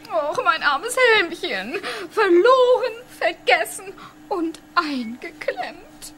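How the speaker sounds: half-crying over a helmet; mock lament. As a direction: sob theatrically over the little helmet. Laments her lost helmet.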